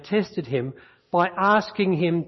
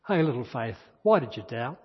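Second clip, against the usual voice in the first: tender; 5 semitones lower, 3 dB quieter than usual. Acted. Voicing Jesus tenderly, lower.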